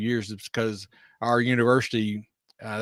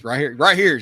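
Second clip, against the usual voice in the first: echoing her; 3 semitones higher, 6 dB louder than usual. Retold or imitated. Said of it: "I'm like".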